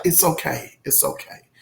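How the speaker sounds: imitating a soothing mother, dropping very soft; mother's soothing. Imagined mother rocking her baby to sleep, softly soothing. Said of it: "she's just like".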